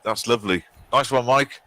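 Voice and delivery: talking round a cigarette; words round a cigarette in mouth. Real, not acted. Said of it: "took a cigarette in my mouth there".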